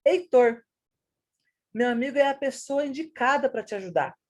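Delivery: no break between "meu amigo" and "é"; meu amigo run on. Shown as a demonstration. Teacher to the class, Heitor called first, then a plain statement. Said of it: "No segundo exemplo".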